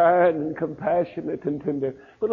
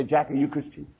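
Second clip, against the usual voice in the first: gentle question; 6 dB quieter than usual. Retold or imitated. Preacher quietly asking a pastor friend, softly. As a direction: ask it quietly, one to one.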